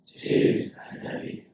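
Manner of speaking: whispery mock creeper. Team copying the coach on his count, creeper voice. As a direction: say it like a creep, without voice. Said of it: "Everybody in creeper voice says".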